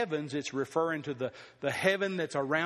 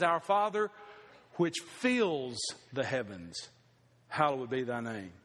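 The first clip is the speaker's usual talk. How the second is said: quoting Dallas Willard; 4 semitones lower than usual. Retold or imitated. Preacher quoting Dallas Willard to the congregation, hushed and reverent. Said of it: "I like the way he said it".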